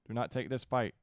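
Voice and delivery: loud, pressing order; urgent command. Real, not acted. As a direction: shout it as a warning. Ordering units to avoid battle.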